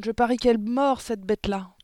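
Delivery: high, loud exclamation; alarmed cry. A narrator's reading. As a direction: cry out an excited warning. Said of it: "s'écria Anémone".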